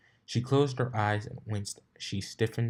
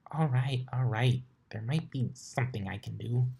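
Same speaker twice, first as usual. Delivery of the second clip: lightly voiced studious unicorn, a bit higher; a hint of a flustered librarian pony; brisk bookish unicorn, lightly done; Twilight voice; 4 semitones higher than usual. Twilight gives in.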